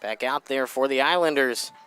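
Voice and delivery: winded after climbing stairs; breathless from the stairs; out of breath. Real, not acted. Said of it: "catching my breath there".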